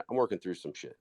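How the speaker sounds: soft, kind delivery; a gentle admission; nice tone. Shown as a demonstration. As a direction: say it gently, nicely. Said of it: "say it in a nice tone".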